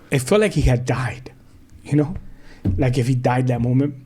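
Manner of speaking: whispered, choked with grief; real whisper of heartbreak. Real, not acted. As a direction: barely voice the loss. Grieving memory of son leaving.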